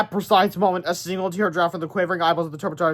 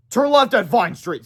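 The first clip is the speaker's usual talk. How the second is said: higher, louder, slower calling; eager directions; 6 semitones higher, 6 dB louder, slower than usual. Acted. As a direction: point the way keenly. Principal guides monster.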